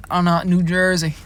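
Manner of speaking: playful attempt at New Jersey; mock New Jersey accent. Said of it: "never gonna do those voices".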